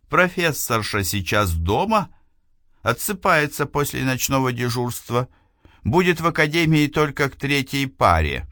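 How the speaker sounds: a student arguing urgently; young woman voice. Acted. Eliana voiced by narrator.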